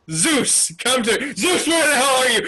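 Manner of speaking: mock-irritated shouting for someone missing; impatient calling. Acted impatient calling for Zeus.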